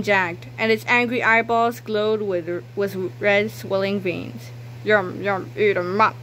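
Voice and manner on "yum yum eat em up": evil toilet voice. Acted. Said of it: "cried the evil toilet".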